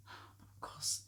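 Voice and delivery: of course whispered, unvoiced. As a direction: breathe "of course" with no voice. Excuses the mother.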